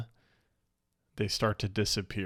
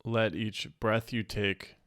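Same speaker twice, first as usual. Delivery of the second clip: calm meditation guide, unhurried with long pauses; a slightly hushed, settling guided-meditation voice. Real, not acted. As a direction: ease listeners gently into stillness.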